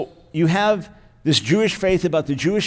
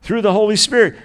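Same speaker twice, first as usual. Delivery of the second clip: higher, louder "Through the Holy Spirit"; emphatic; 4 semitones higher, 5 dB louder than usual. Shown as a demonstration. Pastor stressing Paul's fifth emphasis, higher and louder. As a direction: proclaim it with full weight. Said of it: "Number five".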